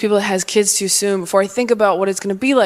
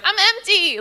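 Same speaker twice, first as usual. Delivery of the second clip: body voice; 9 semitones higher than usual. Retold or imitated. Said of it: "my body's like".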